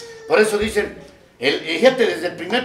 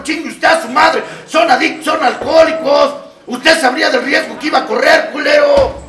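louder and higher, furious cursing; angry shout; 4 semitones higher, 5 dB louder than usual. Acted. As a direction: lash out at the whiner. Cursing the betrayed complainer.

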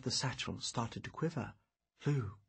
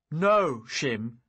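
urgent shout; 8 dB louder than usual. Acted. Urgent warning.

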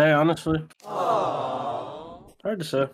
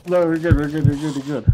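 loud reassuring; 7 dB louder than usual. Real, not acted.

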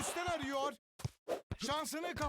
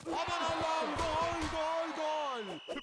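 screaming football commentator; slower than usual. Acted. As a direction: belt out gol gol gol. Goal call in commentary.

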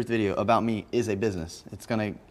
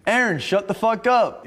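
higher, louder mock yell, slow on the last words; 10 semitones higher, 4 dB louder, slower than usual. Roommate yelling at Aaron upstairs in mock anger. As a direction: bark it up the stairs in mock anger. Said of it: "I'd be like".

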